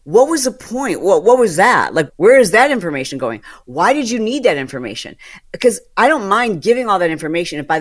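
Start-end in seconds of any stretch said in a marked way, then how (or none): 0.0-5.2 annoyed outburst. Retold or imitated. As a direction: throw the questions out in irritation. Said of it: "And I get so annoyed".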